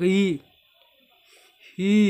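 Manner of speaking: short demo of a startled cry; startled yelp, imitated. Shown as a demonstration. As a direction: mimic a small yelp of surprise. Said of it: "Nagulat lang ako, di ako sumigaw". (ginagayang gulat)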